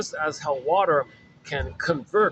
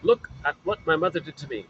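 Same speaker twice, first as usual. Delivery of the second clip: shaming mother; 2 semitones higher than usual. Retold or imitated. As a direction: play the mother exposing her own mother to the world. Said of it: "as if the mother's saying to the world".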